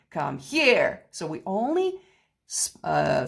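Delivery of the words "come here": a light scolding "Come here.", end pushed; half-hearted scold at a child; mock scolding. Shown as a demonstration. Piano teacher shows a scold, lightly scolding. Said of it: "you scolding someone".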